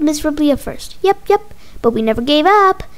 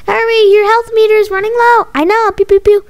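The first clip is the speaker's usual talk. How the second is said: put-on higher, pressing kid voices; urgent young gamers; 6 semitones higher, 5 dB louder than usual. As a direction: hurry your teammate along in a kid's voice. Kids panicking over the game.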